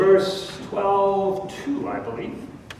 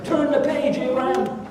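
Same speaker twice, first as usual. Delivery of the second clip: higher, urgent voice of God calling Abram; God's brisk, raised call to move on; 6 semitones higher than usual. Acted. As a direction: speak as God nudging him onward.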